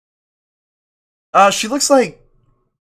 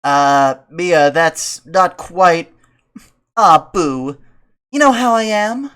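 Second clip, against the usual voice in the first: put-on pleading boy voice; 3 semitones higher, 8 dB louder, slower than usual. Ben voiced.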